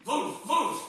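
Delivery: two loud, high woofs; dog barking. Acted. Next morning the barking continues, loud and high. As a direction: bark like the dogs over the fence. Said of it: "the barking continues".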